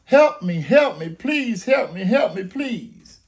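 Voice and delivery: high, loud cries of help me; begging neighbor screaming for help, loud and high. Retold or imitated. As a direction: cry out desperately for rescue. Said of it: "you hear somebody screaming".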